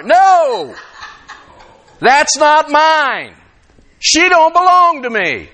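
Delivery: high, slow self-scolding shout; mild mock yell at himself; retold yell. Preacher yelling at himself in his car, slow and high. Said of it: "I yelled in my car".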